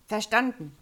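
knapp bestätigt über Funk, etwas lauter; over walkie talkie. Acted. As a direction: wie durchs Funkgerät gesprochen. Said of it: "Es knackte kurz im Funk. Dann kam die Bestätigung". (über Funk bestätigen, lauter)

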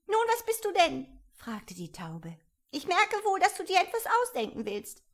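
high, put-upon bird voice, not listening to anyone; fussy pigeon. A narrator's reading.

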